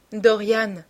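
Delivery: "Dorian" drawn out a little with a falling lilt; lingering, musical name. A narrator's reading. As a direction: lean on "Dorian" as if savouring it. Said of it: "appuyant sur son prénom d'une voix traînante et musicale". («Dorian» appuyé, traînant et musical)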